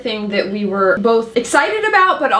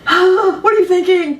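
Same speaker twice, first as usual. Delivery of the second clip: a gasp then higher, louder, slow plea; urgent question; 10 semitones higher, 5 dB louder, slower than usual. Retold or imitated. Asking Dolores her thoughts, slow urgent plea. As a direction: beg the character to reveal herself. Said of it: "but it was like".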